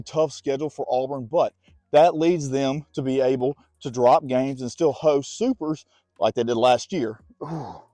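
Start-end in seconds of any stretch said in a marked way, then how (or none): 1.3-7.2 winded from walking; breathing hard between words. Real, not acted. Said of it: "I'm out of breath". 7.4-7.8 breathless ooh puffed out; winded exhale. Real, not acted. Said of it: "I'm out of breath".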